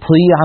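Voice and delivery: "طيع" with air gushing after ط; aspirated ط. Shown as a demonstration. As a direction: isolate the mistake: breathy ط in "طيع". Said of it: "مع هذا الهواء المتدفق". (نطق "طيع" مع هواء متدفق)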